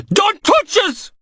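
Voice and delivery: high, slow terrified wail; panicked shriek. Acted. Knox panicking as Logan grabs his sleeve, high terrified wail. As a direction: shrink back in terror and cry it out.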